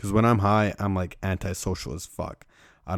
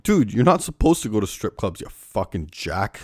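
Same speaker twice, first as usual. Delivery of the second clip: exasperated; 2 semitones higher, 4 dB louder than usual. Retold or imitated. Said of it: "It's like".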